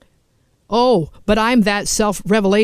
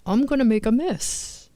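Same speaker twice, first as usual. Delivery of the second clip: warning threat. Retold or imitated. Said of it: "And I said".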